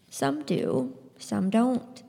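soft, unhurried reply; gently. Acted. Scythe answering Citra's outburst gently. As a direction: calmly brush off her anger. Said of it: "he said gently".

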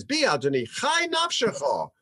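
rising into a high, indignant cry; voicing a mother's mock outrage at the priest; upset outburst. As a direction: fling the words at him like an oath. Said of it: "she gets really, really upset".

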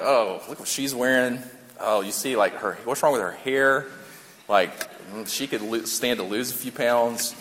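low, soft aside to your buddies, play-acted; mock catty remarks kept under the voice; hushed gossip. Acting guys gossiping about a girl.

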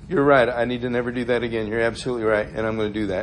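soft, low concession; gentle agreement. Retold or imitated. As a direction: agree meekly, voice dropping away. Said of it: "a gentle word turns away wrath".

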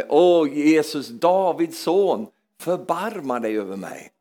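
retold cry from the heart, not shouted; heartfelt plea. Preacher voicing the blind man's cry to Jesus, slow heartfelt plea. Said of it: "det var ett hjärtats rop från hans inre".

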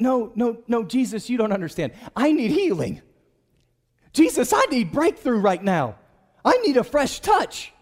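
pressing, worked-up appeal; insistent plea. Acted. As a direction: plead urgently with Jesus. Acted insistent plea to Jesus.

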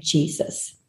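a small breathy whisper of "Jesus". Retold or imitated. Little ones whispering their one prayer word. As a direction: whisper the name like a tiny child. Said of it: "it was them saying".

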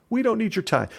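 high, sing-song mocking quote; mocking the Watchtower's line; mock org voice. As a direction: parrot them sarcastically. Mocking the organisation's new message.

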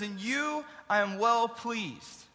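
slow, solemn voice from heaven; slow, grand heavenly father voice; voice of God. Retold or imitated. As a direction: speak it slowly like God from the clouds. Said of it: "God's voice, and he says".

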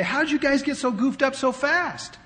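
half-mock exasperation at a wayward church; exasperated disbelief. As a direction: ask it like you can't believe how fast they fell. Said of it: "you want to say".

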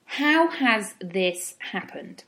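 slow, gentle curious noticing; curious and calm. Retold or imitated. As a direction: notice it kindly, without judgment. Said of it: "What you want to do is go".

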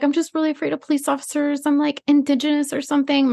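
hammed-up girly whimper; mock whiny girl. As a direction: mimic a simpering drunk girl. Mimicking drunk girl.

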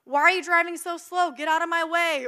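mock road-rage complaint; annoyed. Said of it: "I get so annoyed".

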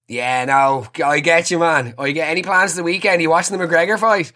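high, eager blokey banter; overdoing the one-of-the-lads act; hammed-up lad voice. Chatting up the installer with macho bro talk.

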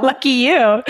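laughing while saying it. Real, not acted. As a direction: say it through a real laugh. Joking about the chef husband.

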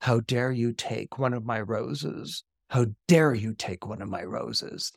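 lightly voiced beast, low and measured; low, restrained menace of an affronted beast; roaring beast, understated. Beast confronts the petrified father over his roses, understated low roar. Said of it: "he roars, you know".

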